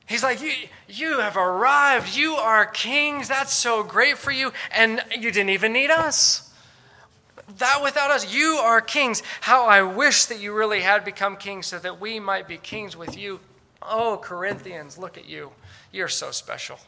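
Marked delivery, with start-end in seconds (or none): 0.4-13.4 high, loud, drawn-out sarcastic praise; mocking. Paul to Christians who think they have arrived, mocking. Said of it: "He's mocking them". 13.8-16.8 mock admiration, dropping away. Paul telling the Corinthians how special they are, mocking. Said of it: "He's mocking them".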